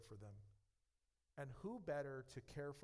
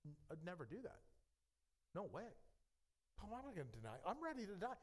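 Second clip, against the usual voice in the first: bold vow; 5 semitones higher, faster than usual. Acted. Peter's bold vow acted out.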